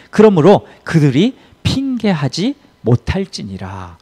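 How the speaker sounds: loud, measured verse reading; scripture reading. Acted. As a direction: read the verse out firmly to the congregation. Reads Bible verse aloud.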